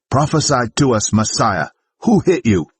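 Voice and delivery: high, jeering sneer; mocking taunt. Guards slapping Jesus taunt him, high and jeering. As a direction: taunt the beaten prisoner.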